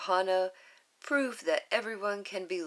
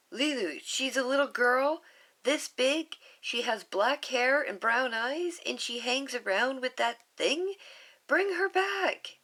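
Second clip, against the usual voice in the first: higher and louder, urgent; pleading sister; 6 semitones higher, 5 dB louder than usual. Acted. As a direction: sister pleading for her little girl. Nani describes lost sister.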